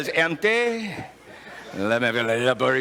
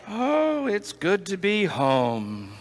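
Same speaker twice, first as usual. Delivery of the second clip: content resident's sigh; 3 semitones higher, much slower than usual. Retold or imitated. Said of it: "you hear somebody's voice say".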